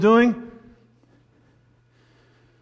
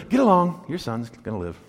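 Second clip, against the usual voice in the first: casual; 5 dB quieter than usual. Shown as a demonstration. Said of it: "He just simply says".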